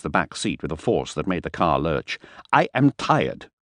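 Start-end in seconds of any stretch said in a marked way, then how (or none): 2.5-3.5 declaring loudly. Acted. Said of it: "he declared loudly".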